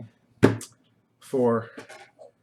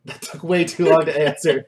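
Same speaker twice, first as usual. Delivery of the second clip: louder, amused protest; laughing complaint; 5 dB louder than usual. Real, not acted. Mock complaint after delayed yes.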